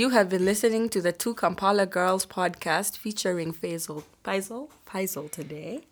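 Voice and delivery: lightly put-on late-night radio presenter; podcast voice. Shown as a demonstration. Host signs off to podcast listeners, podcast voice. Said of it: "Let's put on our podcast voice".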